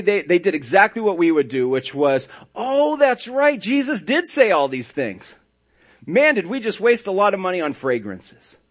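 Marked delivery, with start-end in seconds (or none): 2.5-8.6 sarcastic women's voice. Pretend. Pastor voicing the women at the tomb, high mock realisation. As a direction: play the ladies suddenly remembering, hammed up. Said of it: "notice my sarcasm".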